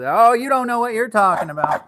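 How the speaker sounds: very high, loud country grandma; grandmother impression. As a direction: scold them like a high-voiced country grandma. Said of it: "she would just be".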